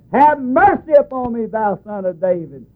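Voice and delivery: mock yell, starting high and dropping. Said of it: "He just screamed even more louder".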